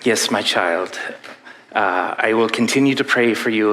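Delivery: priest in a clumsy, lightly put-on Irish accent; bad Irish accent. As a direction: attempt an Irish priest, badly. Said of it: "this is the worst Irish accent you've ever heard".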